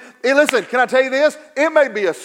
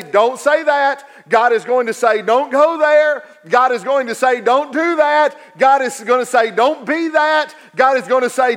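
voice of God warning; 5 semitones higher than usual. Acted.

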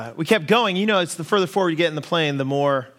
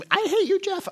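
mock angry outburst. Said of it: "I don't mean like".

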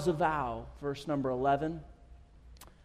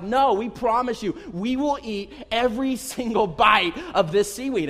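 emphatic mock pleading, higher voice; kids promising; 4 semitones higher, 3 dB louder than usual. Kids promising dad they'll eat it, emphatic.

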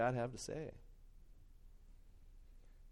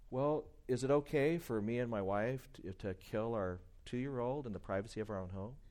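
calm, tender challenge trailing softer; gentle, loving; 2 semitones lower, 4 dB quieter than usual. Acted. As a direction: ask it lovingly, easing down softly. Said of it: "very lovingly and gently, you can just say".

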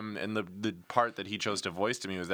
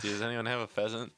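a lightly attempted British accent. Shown as a demonstration. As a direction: try a British accent, not very convincingly. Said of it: "That's my British accent".

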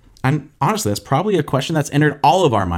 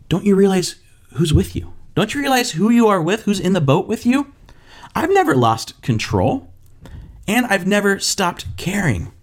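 higher, earnest gentle questioning; reassuring; 6 semitones higher than usual. Shown as a demonstration. Jesus reminding disciples who is in the boat, earnest reassurance. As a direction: remind them kindly who is with them. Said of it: "he was saying".

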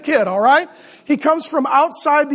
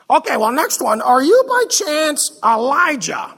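lightly put-on pious committee man; Ned Flanders. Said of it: "religious people sound like Ned Flanders".

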